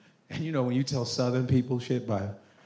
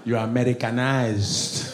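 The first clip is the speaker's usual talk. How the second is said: put-on Nigerian accent; 3 semitones lower, slower than usual. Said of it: "Even Nigerians be testing me".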